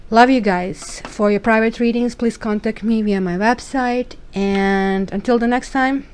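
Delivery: loud cheerful goodbye to viewers; upbeat sign-off. Real, not acted.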